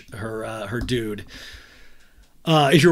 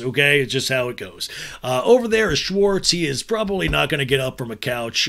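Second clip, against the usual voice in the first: rally the new guy like a team coach; coach briefing; 5 dB louder than usual. Pretend. Host coaching a newcomer before he joins the show, mock pep talk. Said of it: "I should train people to get on Vanderpump Rules and be like".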